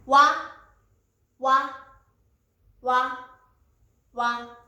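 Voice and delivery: わ said as a W gliding into A; teacher repeating わ clearly, pausing after each; W plus A sound. Shown as a demonstration. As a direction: model わ as separate short syllables. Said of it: "とアの音で".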